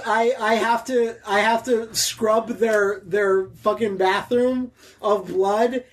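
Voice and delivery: put-on Kiwi accent that slides toward Indian; bumbling put-on New Zealand accent. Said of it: "It sounds like you're from India".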